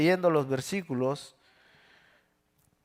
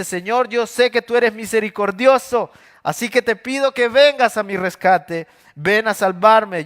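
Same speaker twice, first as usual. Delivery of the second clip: louder, pressing prayer; urgent plea; 4 semitones higher, 4 dB louder than usual. Acted. David begging God to come rescue him, loud urgent plea.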